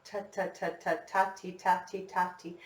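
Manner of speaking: quiet ta and ti, tongue tapping; whisper-soft tonguing syllables; soft tongued syllables. Shown as a demonstration. Teacher showing where the tongue hits for recorder. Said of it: "your tongue on the roof".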